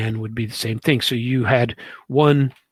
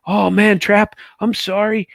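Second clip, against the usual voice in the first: higher, louder, a mock-sorry colleague; imitating the interpreter apologizing, pitched up; sheepish apology; 9 semitones higher, 6 dB louder than usual. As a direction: play the embarrassed buddy owning up. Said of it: "he goes".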